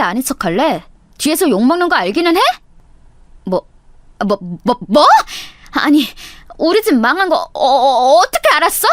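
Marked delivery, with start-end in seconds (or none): 3.4-8.9 flustered stammer. Acted. 들켜서 당황한 동창.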